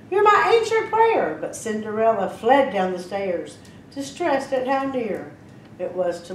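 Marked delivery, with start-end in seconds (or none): 0.1-1.4 prince crying out. A narrator's reading. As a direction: cry it out like a lovestruck prince. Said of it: "Chornel cried".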